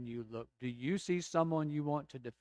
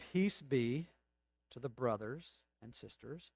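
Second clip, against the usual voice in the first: solemn benediction reading; 2 semitones lower than usual. Shown as a demonstration. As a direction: let each phrase of the blessing settle. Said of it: "I'm just gonna read it a couple of times".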